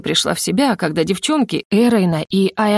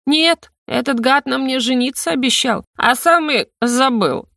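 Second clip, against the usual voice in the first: put-on drunken confiding; 6 semitones higher than usual. A narrator's reading. Drunk heroine sharing secret.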